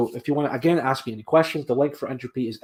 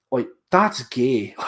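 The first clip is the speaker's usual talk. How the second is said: laughing; 4 dB louder, much slower than usual. Real, not acted. Laughs at armband.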